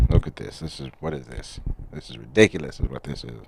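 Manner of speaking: put-on fussy English accent, quick and indignant; exasperated English-accented complaint. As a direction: grumble in a mock English accent. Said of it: "why am I talking in an English accent".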